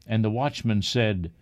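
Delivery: plain reading voice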